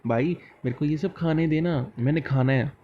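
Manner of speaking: a lightly sweet, polite plea; mild affectionate request to a brother; said lovingly. Shown as a demonstration. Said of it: "बाई को बोलते हैं बड़े प्यार से".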